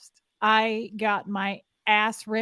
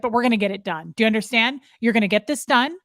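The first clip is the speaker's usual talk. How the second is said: louder, clipped-down orders to an underling; harsh drill command; 4 dB louder than usual. Retold or imitated. Mother scolding the young party worker, loud commanding tone. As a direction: lay down the law to the girl. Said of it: "She was like".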